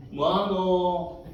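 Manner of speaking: very slow, drawn-out dialect question; a lazy old woman's call back; grandma asking. Retold or imitated. Grandma answers through the door, slow and drawn out.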